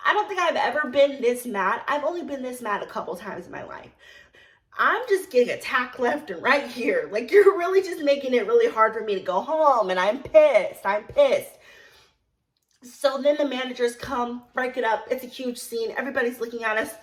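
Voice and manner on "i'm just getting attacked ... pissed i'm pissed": loud, exasperated venting; worked-up anger. Retold or imitated. Server fed up with being kept from home, pissed. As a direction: push the last words out hard and loud.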